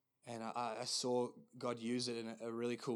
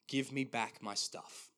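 slow, deliberate demand; firm and serious. Retold or imitated. Voice in a dream demands things back, slow and firm. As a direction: weigh each word as a firm command. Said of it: "quite firm and quite serious".

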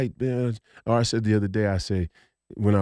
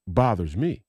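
ordinary delivery

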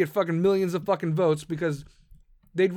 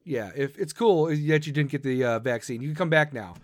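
mock sheepish apology; 8 semitones lower than usual. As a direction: lower voice, a sheepish mock "our bad". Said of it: "wants to be like".

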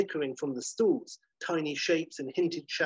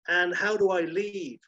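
higher, eager question; eager girl; 5 semitones higher than usual. Acted. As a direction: ask up high and hopeful. Sarah asks.

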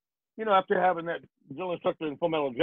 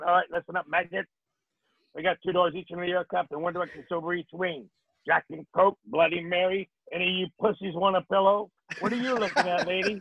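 gruff, barking safety talk; a hint of a drill sergeant bossing passengers; macho tough-guy steward. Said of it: "I made sure they didn't think I was like that".

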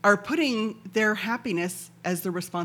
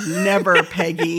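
emphatic playful never; 9 dB louder, slower than usual. Acted. Mock breakup, playful reassurance.

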